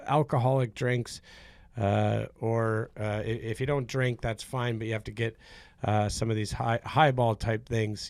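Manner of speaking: warm up the crowd at a comedy club; mock stand-up host voice; club emcee. Addresses comedy club audience.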